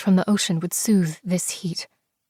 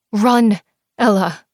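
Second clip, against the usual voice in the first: louder call to run; urgent shout; 5 dB louder, slower than usual. Acted. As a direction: yell for her friend to keep going. Shouting to friend while fleeing.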